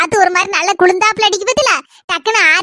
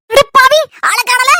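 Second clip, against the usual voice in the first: exclamation; 5 semitones higher, 3 dB louder, much slower than usual. Acted. Mother exclaims at missing man.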